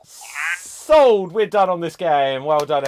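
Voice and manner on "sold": auctioneer call. Acted. Auctioneer closes the round.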